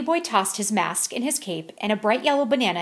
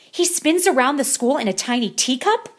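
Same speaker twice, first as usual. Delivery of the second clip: shocked; 5 semitones higher, 4 dB louder than usual. Acted. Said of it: "exclaimed the kitty boy in shock".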